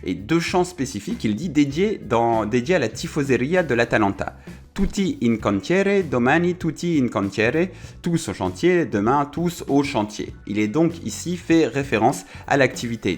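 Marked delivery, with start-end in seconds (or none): 4.7-7.7 put-on Italian accent. Quoting an old Milan fans' chant, in a clumsy Italian accent. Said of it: "Désolé pour mon accent italien".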